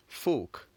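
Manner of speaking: "Folk" as a single French syllable, crisply modelled; one-syllable French "Folk"; French pronunciation demo. Shown as a demonstration. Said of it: "we can pronounce the word again".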